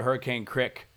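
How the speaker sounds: Crick with a short i, Hurricane said in full; local CRICK. Shown as a demonstration. Quoting Joseph locals, Hurricane Crick with short i in Crick. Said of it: "that I noticed was crick".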